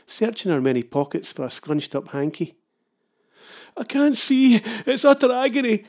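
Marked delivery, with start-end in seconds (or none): 3.8-5.8 high, loud mock wail of agony. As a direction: ham up the agony, wailing. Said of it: "I wailed".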